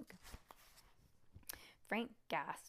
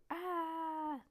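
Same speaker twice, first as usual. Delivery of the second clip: short high-pitched scream; woman's sudden shriek; 10 semitones higher, 4 dB louder than usual. Acted. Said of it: "the woman screamed again".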